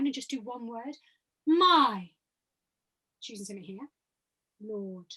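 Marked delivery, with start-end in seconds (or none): 1.5-2.1 "My" sent out loud to a distant point; far-away projection. Shown as a demonstration. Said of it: "If it's far away, it needs to be slightly loud". 3.2-5.1 "Lord" low and soft; placed low and near. Shown as a demonstration. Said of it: "So I'm choosing height and distance".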